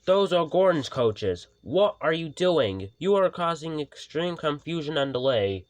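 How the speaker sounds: high, loud stern scolding; cross. Acted. Sir Topham Hatt scolding Flynn, cross. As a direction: scold the fire engine. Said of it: "he said crossly".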